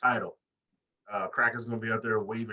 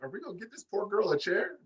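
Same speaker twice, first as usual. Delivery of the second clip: high-pitched mock commentator concern; 8 semitones higher, 3 dB quieter than usual. Imitating an announcer fretting over the hobbling girl, mock concern. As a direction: ask it in a raised, put-on announcer voice. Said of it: "J R would be like".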